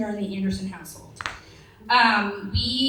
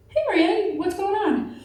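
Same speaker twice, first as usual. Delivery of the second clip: patient father; 8 semitones higher than usual. Retold or imitated. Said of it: "my very patient father goes".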